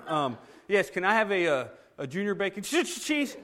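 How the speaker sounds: the second "cheese?" squeaks up high as laughter breaks through; trying to stay composed, failing on "cheese"; laughter escaping on the last word; cracking up. Retold or imitated. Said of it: "I was like".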